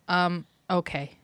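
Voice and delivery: slow, blank mock hesitation; forgot his line. Imitating dying character offered moonshine, blank and hesitant. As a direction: imitate an actor who has lost his line. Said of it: "He forgot his line".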